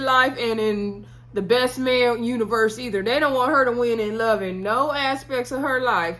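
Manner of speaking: high-pitched, fed-up pleading to the Lord; exasperated rant. Real, not acted. Recapper venting that Jordan never wins in love, exasperated and high. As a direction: beg heaven for her to finally win.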